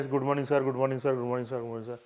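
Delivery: repeated sirs one after another, fading; wrong way, greeting each. Shown as a demonstration. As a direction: rattle off a sir for each person, trailing off. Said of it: "That's not required".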